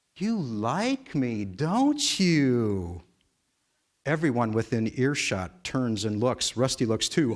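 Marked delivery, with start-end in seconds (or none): 0.2-3.1 very slow, syrupy sweet, sing-song coo. Narrator reading Stacy's words to Rusty: sticky, sweet voice. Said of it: "says in a sticky, sweet voice".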